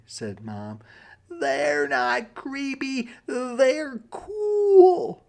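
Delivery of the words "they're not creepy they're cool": put-on high, insistent child's voice; much higher child voice, rising to a louder whine; insistent little rabbit. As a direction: protest like a kid who wants it. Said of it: "said Jasper".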